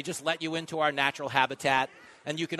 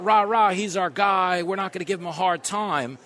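mock cheerleading; 3 semitones higher, 8 dB louder than usual. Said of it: "it's not".

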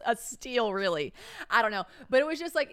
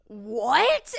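stunned what; 2 semitones higher, 7 dB louder than usual. Retold or imitated. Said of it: "And they were like".

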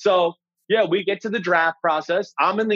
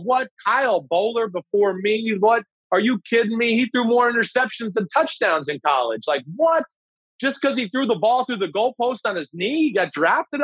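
higher-pitched incredulous griping, not shouted; retold pissed-off disbelief; 5 semitones higher than usual. Passed-over quarterback watching the draft, pissed and incredulous. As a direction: replay your outrage at being passed over. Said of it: "I'm pissed. I'm going".

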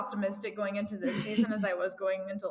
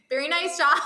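louder, higher laughing cheer; imitating friend's cheer; 8 semitones higher, 8 dB louder than usual. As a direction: cheer it like a fan. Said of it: "she's like".

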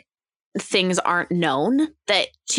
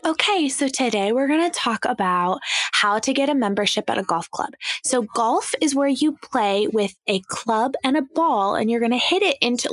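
condescending; 3 semitones higher than usual. Retold or imitated. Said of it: "saying something like".

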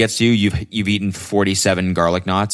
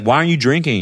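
higher-pitched mock questioning; mock nagging friend; 7 semitones higher, faster than usual. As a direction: pester them like a nosy friend. Imitates friends questioning a non-drinker.

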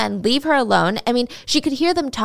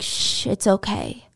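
slow, gently comforting hush; mild acted reassurance, unhurried; soothing; slower than usual. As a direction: hush someone who is crying, imitating a comforter. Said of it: "comforting her in this soothing voice".

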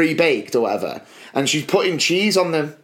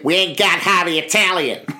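rude server snapping. Retold or imitated. Imitating the rude server barking at a customer. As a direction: fire it back like a rude shop worker.

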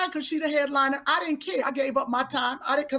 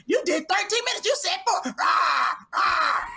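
hammed-up angry accuser; bad acting; 4 semitones higher than usual. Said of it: "That's how you delivered it".

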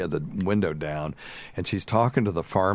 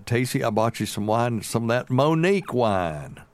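a touch of the mother-in-law, pitched up; lightly voiced mother-in-law; 4 semitones higher than usual. Mother-in-law presenting wine to his wife, lightly imitated.

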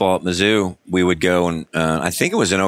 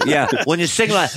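mock rock scream; 8 semitones higher than usual. Imitating rock singer's scream.

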